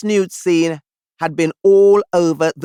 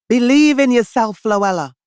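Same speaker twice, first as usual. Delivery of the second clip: self-encouragement; 4 semitones higher, 4 dB louder than usual. Retold or imitated. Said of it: "I told myself".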